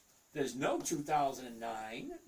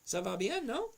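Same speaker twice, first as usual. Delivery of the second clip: put-on French accent; 4 semitones higher than usual. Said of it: "I like your French accent".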